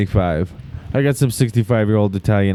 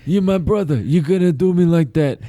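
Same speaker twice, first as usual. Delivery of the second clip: mock pleading mobster; 4 semitones higher than usual. Pleading mobster brother role-play.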